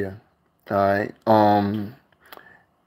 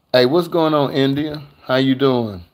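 bright, louder, higher hello to a viewer; excited greeting; 4 semitones higher, 3 dB louder than usual. Real, not acted. Vlogger calling hello to India in the live chat, loud and lifted.

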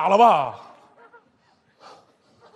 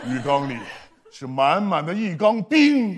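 low, hushed storytelling; suspense narration; 7 semitones lower, 3 dB quieter than usual. Acted.

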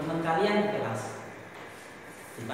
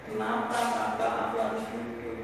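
younger sibling; 5 semitones lower than usual. Acted. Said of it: "Misalnya, kakak menasehati".

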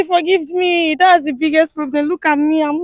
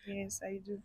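very quiet, low reply; hushed, low-pitched yes; barely audible; 8 semitones lower, 26 dB quieter than usual. Real, not acted. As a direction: answer far too softly to be heard. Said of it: "Please, can you be audible?".

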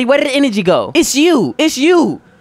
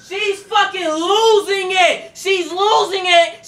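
excited shout; 6 semitones higher, much slower than usual. Real, not acted. Reaction to character snapping.

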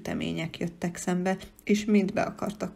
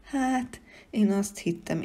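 ordinary delivery

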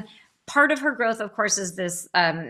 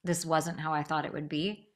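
softer, lower repeat of the mother's words; quiet mother's line; 5 semitones lower, 6 dB quieter than usual. A narrator's reading. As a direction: let it drop into a soft murmur. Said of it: "This is the mother saying".

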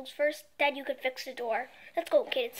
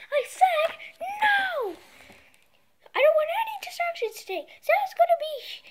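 high, loud furious yelling; angry shout; 13 semitones higher, 5 dB louder than usual. Acted. Father yelling at his son, angry. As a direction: lay down the law.

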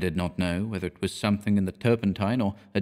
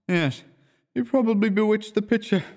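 painter's voice raised, lightly teasing; 12 semitones higher than usual. A narrator's reading. Painter jokes to the model, mildly teasing. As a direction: tease the model, pitch lifted.

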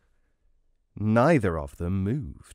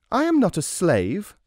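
indignant wife; 9 semitones higher, 4 dB louder than usual. Acted. Wife snaps back in quarrel.

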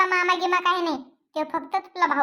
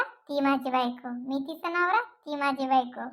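softer, lower and slow, lost in a daydream of a wife; dreamy murmur; 4 semitones lower, 5 dB quieter than usual. Acted. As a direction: savour each word like a sweet dream. Son daydreaming about wife.

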